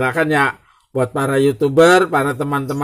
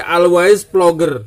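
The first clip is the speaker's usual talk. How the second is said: louder, higher catchphrase; slogan call; 6 dB louder, slower than usual. Acted. Vlogger shouting his channel motto at new YouTubers.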